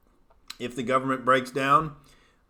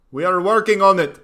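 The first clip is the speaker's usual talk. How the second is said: higher, louder mock African accent; bad African accent; 6 semitones higher, 7 dB louder than usual. Streamer mocking Uganda in a bad African accent. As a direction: crude African accent, stress on working. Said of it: "Worst African accent ever".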